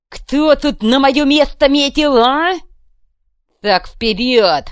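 high, loud, slow taunt; menacing challenge. Acted. Kuvalda taunting the crowd, menacing. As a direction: dare them to step forward.

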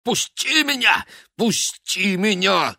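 desperate yelling; struggling. A narrator's reading. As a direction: fight to break free. Struggling free of his brother.

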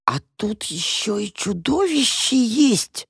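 slow, hushed, high gasp of fear; frightened cat whispering in horror; terrified whisper. Acted. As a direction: breathe it out in horror. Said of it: "в ужасе прошептала кошка".

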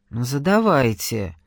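half-hearted consent; reluctant. Acted. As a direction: give in unwillingly. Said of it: "неохотно согласилась девушка".

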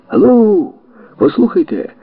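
high, loud call to get attention; shout. Acted. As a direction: yell across at the police. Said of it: "закричав Форд".

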